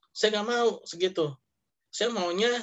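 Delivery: lightly voiced haughty rich investor; a hint of a bossy big depositor; demanding investor. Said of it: "kata si sohibul mal". (suara investor kaya yang menuntut)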